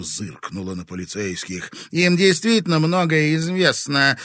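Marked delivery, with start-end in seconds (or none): 1.9-4.2 louder, higher venomous hiss; spiteful hiss. A narrator's reading. Dasha spitefully mutters about the police. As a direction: spit it through the teeth. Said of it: "злобно процедила Киселёва".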